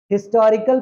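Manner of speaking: हिस्टोरिकल begun with a clear H; modern sounded H. Shown as a demonstration. Teacher confirming today's way: हिस्टोरिकल with H sounded. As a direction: pronounce the H in हिस्टोरिकल. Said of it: "pronounce करते हैं".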